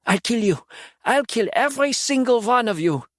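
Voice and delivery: loud, high, furious threat; the trapped demon threatening everyone around him; spat threat. A narrator's reading. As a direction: spit out every word of the threat. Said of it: "Mattis spat".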